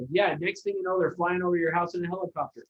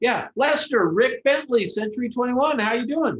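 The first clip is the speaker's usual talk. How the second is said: casual, friendly, easygoing tone, raised; 6 semitones higher, 5 dB louder than usual. Imitating an agent phoning a stranger: casual, friendly tone like talking to a friend. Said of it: "Like you talking to a friend".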